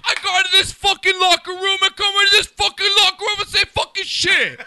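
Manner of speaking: high, loud laughing parody of the fan; mock ranting fan. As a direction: yell it like the angry fan, laughing. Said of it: "mimicking the ranting fan".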